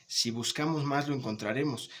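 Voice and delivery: unstressed "Si", phrase carried on to "más", settling on "lo encontraremos"; conditional intonation. Shown as a demonstration. Teacher repeating the conditional example, "más" joined to "buscamos". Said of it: "Cambia la entonación".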